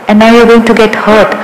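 ordinary talk, nothing marked

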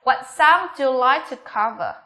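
slow question falling on "cover"; falling intonation. Shown as a demonstration. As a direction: bring "cover" down at the end. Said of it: "Cover của chúng ta xuống giọng".

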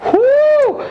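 high, loud whoop. Real, not acted. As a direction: let out a cheer. Cheers at the roast. (malakas na sigaw ng tuwa)

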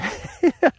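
quick light chuckle; brief amused laugh breaking in; short laugh. Real, not acted. Amused aside about swimming.

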